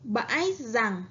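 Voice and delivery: bãi with a clear broken ngã tone, rằng ending in ng, slowly; bãi rằng drawn out, tones marked; slow model reading. Shown as a demonstration. Teacher models the hard word slowly. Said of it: "Các bạn hãy lắng nghe cô đọc".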